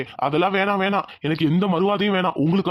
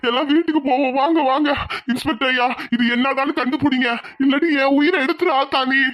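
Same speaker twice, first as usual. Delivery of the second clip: grieving lament; 4 semitones higher than usual. Acted. Father laments to goddess.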